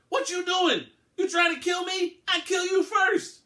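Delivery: put-on high, loud, accented gunman shouting; shouted threat. A narrator's reading. Gunman Gomez shouting at the police, furious and loud. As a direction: scream threats out the window.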